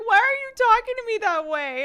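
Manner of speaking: high, loud indignant protest; imitated kid yelling. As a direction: mimic a child yelling from the back seat. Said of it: "I'm getting yelled at".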